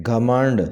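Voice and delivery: گھمنڈ with a short a first, "ghamand"; correct pronunciation. Shown as a demonstration. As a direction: say گھمنڈ as gha-MAND. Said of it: "ٹھیک طریقے سے اس طرح".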